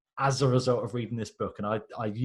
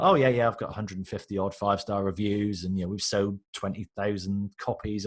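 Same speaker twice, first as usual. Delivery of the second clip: casually offhand, shrugging it off; blasé; 3 semitones lower than usual. Retold or imitated. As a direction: play it down like it's nothing. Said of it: "blasé about it".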